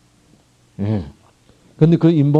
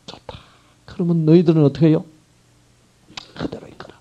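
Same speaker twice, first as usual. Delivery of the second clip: grieving release; 5 semitones higher than usual. Acted. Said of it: "기분 나쁘게 읽으면 안 돼요".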